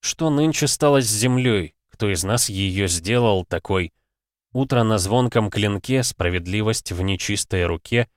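медленно, раздумчиво, нараспев; прочесть строфу как эпиграф; чтение стихов. A narrator's reading. (декламация стихотворения)

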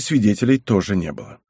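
ordinary delivery

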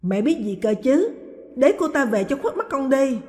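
loud, bitter retort to his mother. A narrator's reading. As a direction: snap back loudly at mom. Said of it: "Hãng lớn tiếng". (lớn tiếng gắt gỏng)

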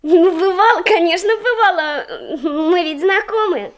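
laughing while questioned by the headmistress. Acted. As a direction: say it through a light laugh. Laughs answering the teacher.

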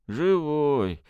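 «Живой» mumbled with a thick tongue; slurred lisp. A narrator's reading. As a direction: say «Живой» barely moving the tongue. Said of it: "еле ворочая языком прошепелявил".

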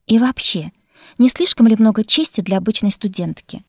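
snapping back. Acted. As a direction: bite back at him. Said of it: "огрызнулась я". (огрызаясь)

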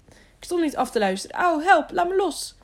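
high, protesting whine with yelps; wailing. A narrator's reading. Servant denies eavesdropping to the knight, wailing. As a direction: plead loudly to be released. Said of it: "jammerde de knecht".

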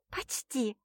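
soft, teasing hum; pillow talk. A narrator's reading. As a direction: tease him softly, almost whispered. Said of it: "хмыкнула она".

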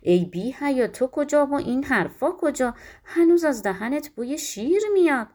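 put-on a nurse berating a shameless girl; angry scolding. Nurse scolds the princess angrily for her shameless love. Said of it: "عصبانی شد و گفت".

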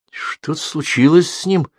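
slow worried thought; a touch of dread. A narrator's reading. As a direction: feel the chill creep in. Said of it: "ощущая холодок".

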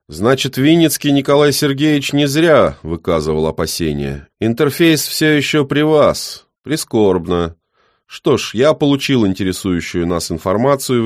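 put-on high, loud old man voice; coldly dismissive old man; stern old man.

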